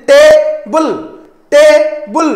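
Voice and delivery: ଟେବୁଲ with the first syllable TE loud and clear; stress on TE. Shown as a demonstration. Teacher showing stress, first syllable of ଟେବୁଲ stressed. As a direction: punch the TE of ଟେବୁଲ, keep BUL light. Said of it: "ଟି ଏ ଉପରେ stress ଆସୁଛି".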